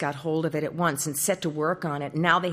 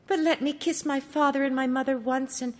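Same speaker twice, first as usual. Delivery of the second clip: higher, tender farewell of a princess; 6 semitones higher than usual. Acted. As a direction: say goodbye to each one gently. Princess speaks.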